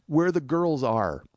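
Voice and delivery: slow, halting imitation of an embarrassed friend; sheepish imitation. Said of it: "Jeff looks down sheepishly".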